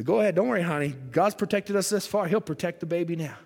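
reassuring husband. Acted.

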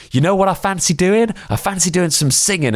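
hammed-up Stranger Things kid suggesting singing; imitating the actor. Actor in the cabin urging the audience, high mock kid voice. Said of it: "And she was like".

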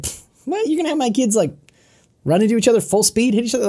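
scoff, then shrill disbelief; incredulous parent. Retold or imitated. Parent scoffing at the coach's football plan, incredulous and high. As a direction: pitch leaps up in disbelief. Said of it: "And the parents are like".

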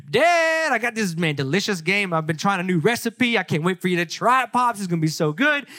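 excited call, then quick eager chatter; eager Esau. Retold or imitated. Esau presenting his dish to Dad, excited.

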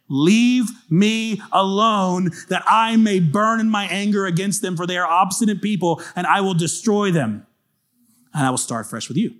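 God's stern words. Acted. Preacher reading God's words aloud.

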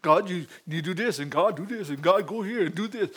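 low, subdued mock pleading; imitating his own sorry prayer; pitiful prayer. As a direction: mumble a feeble list of requests. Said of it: "you should have heard that pitiful prayer".

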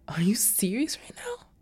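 hushed, disbelieving question; stunned whisper. Retold or imitated. Missus Reef asking the pastor in disbelief, whispered. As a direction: breathe it out in shock.

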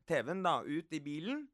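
usual speaking voice

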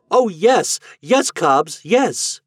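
put-on high, eager yeses from the children; children bursting with delight at the offer; joyful cry. A narrator's reading. Runaway children answer Cobbs, crying out for joy. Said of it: "cried out".

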